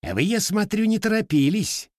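high, mocking jab at the late arrivals; police lieutenant needles the Cossacks, scoffing; scoffing snort. A narrator's reading. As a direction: sneer it like a smug officer. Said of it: "фыркнул полицейский".

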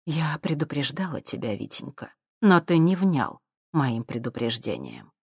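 cold, level warning; icy calm warning to the man; coldly. Acted. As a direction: chill him with every word. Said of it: "холодно произнесла она".

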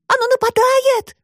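put-on high girl's shout of warning; Alisa shouting. A narrator's reading. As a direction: call out to Pashka in a high, loud girl's voice. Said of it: "крикнула Алиса". (высокий девичий крик)

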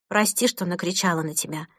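quiet apology. Acted. Mother apologising softly.

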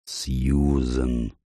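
low, slow, soft lion's call of her name; a lion speaking low and solemn; deep low voice. Acted. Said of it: "произнёс глубоким низким голосом".

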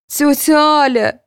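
loud high call to her aunt; shout. A narrator's reading. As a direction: call out across the courtroom. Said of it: "крикнула Таня".

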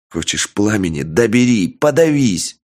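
furious yell, building to a shout; berserk rage. Acted. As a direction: roar it out in a blind fury. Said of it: "В ярости заорал я".

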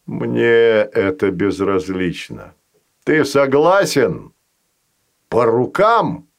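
a patient creature striking a deal; slow sly monster voice. Acted. Fazanol voice.

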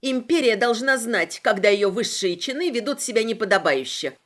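crisp and firm. Acted. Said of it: "отчеканила репортёрша".

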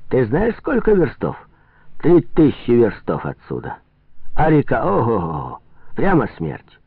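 lightly voiced trader, pitch jumping about; a hint of mocking alarm; excitable trader, scoffing. Trader warning Prokhor of the long river, lightly scoffing.

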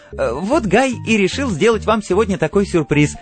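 high, nervous hostess voice with hesitations; uneasy high-pitched social cover-up; trembling explanation. A narrator's reading. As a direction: explain anxiously, stumbling on small fillers. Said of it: "она уже объясняла дрожащим голосом".

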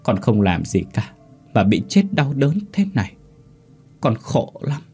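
a grieving spirit begging her parents, voice climbing; dead mother's spirit. Acted. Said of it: "miệng phát ra những tiếng khóc thút thít".

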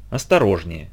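soft, low careful warning; gently. Acted. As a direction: say it gently, almost tenderly. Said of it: "мягко сказал".

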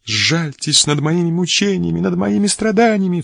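high, pleading cry for mercy; desperate cry. A narrator's reading. Wretched countess on her knees begs the filibuster, crying out high. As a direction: beg through tears, voice rising high. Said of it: "вскричала несчастная женщина".

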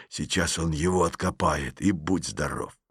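soft low whisper. Acted. Petrov whispers the plot to Masha, softly. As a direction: hush it so nobody hears. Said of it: "опять зашептал".

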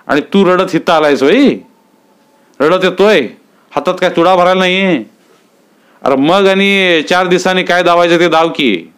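mock him for crying, lightly voiced; taunting villager. Dattu taunting the crying man in a lightly voiced sneer.

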